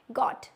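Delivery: "got" as goat, with a long o; long O sound. Shown as a demonstration. Teacher giving the third long-vowel example, long O. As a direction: lengthen the o in "got". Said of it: "long ओ की sound दे रहा है".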